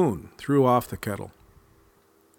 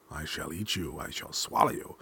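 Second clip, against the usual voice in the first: mocking song; 5 semitones lower, 5 dB quieter than usual. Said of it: "he sang his mocking song".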